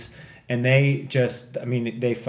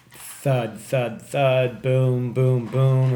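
spoken thuds and booms, building a little louder; imitated thundering noise; 2 semitones higher, 3 dB louder, much slower than usual. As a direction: mimic heavy thudding, one beat at a time. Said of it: "thundering noise".

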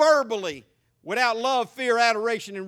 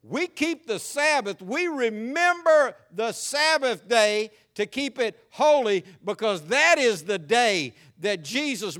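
slow, emphatic preaching; 4 dB louder than usual. Real, not acted. Preaching declaration.

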